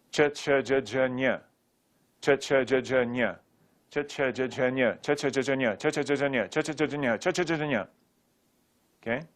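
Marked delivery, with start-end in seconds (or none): 0.1-7.9 rapid-fire syllable chant, run together; brisk repeated practice drill; quick drill. Shown as a demonstration. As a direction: rattle the sounds off in an even rhythm. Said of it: "Now say it slowly".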